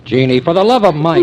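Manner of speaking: urgent plea. Acted. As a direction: stop her before she says too much. Pete tries to stop Jean.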